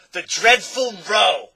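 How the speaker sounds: loud, high, eager answer; bright volunteering. A narrator's reading. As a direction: sing out the answer brightly and slowly. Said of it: "volunteered the humbug brightly".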